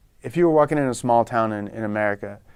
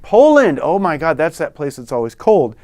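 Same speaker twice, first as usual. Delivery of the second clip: "Poland?" jumps high and loud, then settles into chatter; imitating an American reacting to a Pole; mock American surprise; 4 semitones higher, 4 dB louder than usual. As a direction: play the amazed small-town American. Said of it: "or they would say".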